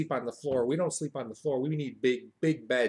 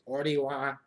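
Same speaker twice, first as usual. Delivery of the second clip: slow, deliberate put-on swagger; drawn-out, matter-of-fact boast; giving it straight; 4 dB quieter than usual. Shown as a demonstration. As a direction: deliver it slowly and squarely. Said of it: "give to 'em straight".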